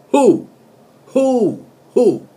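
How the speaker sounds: shouted who, rising in force; hammed-up yell of the song's hook; mock shout. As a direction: bellow the hook like a party cry.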